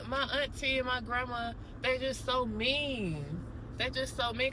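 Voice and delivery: a hint of a hurt little girl; child voice. Little girl telling the visitor her family is mean, lightly childlike. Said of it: "And she was like".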